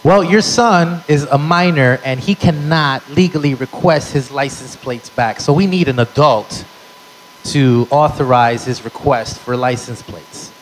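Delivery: a clerk explaining procedure; lightly voiced bureaucrat. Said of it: "he goes".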